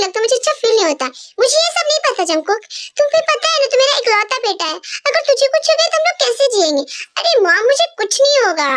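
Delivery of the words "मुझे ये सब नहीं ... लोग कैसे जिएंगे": higher mother's voice, pleading; worried mom. Acted. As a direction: fear for your only son.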